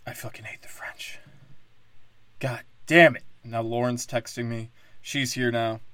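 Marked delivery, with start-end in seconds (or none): 0.1-1.2 hissed under the breath; whispered aside. Real, not acted. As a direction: whisper it like a muttered curse. Bitter aside after French rant.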